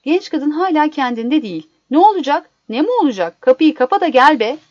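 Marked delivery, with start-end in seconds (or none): 1.9-4.6 louder, exasperated retort; insistent, punched-up impatience; impatient urging. Acted. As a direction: hurry them along impatiently. Husband urges dazed wife inside.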